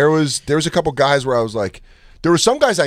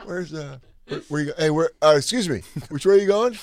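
higher, anxious questioning; rising panic; 5 semitones higher, 3 dB quieter than usual. Shown as a demonstration. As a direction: voice climbing as the panic grows. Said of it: "I'll go like this".

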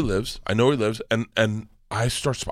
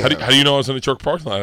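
alarmed daughter; 3 semitones higher, 4 dB louder, much faster than usual. Retold or imitated.

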